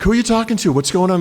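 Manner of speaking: high puzzled wife voice; wife asking, confused. Retold or imitated.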